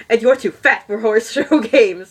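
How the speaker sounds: mock the fat pony while giggling; laughing sneer. A narrator's reading. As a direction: vain show pony taunts Pepper. Vain show pony sneers.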